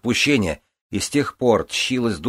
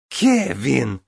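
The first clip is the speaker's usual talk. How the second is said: shrill scream; 6 semitones higher, 4 dB louder than usual. Acted. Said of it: "пронзительно завизжала Гвенвифор".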